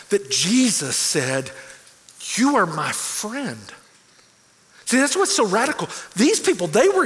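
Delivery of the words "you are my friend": slow, deliberate and warm; tender friendly words. Acted. Jesus telling the listener they are friends, slow and sincere. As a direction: draw it out like a promise.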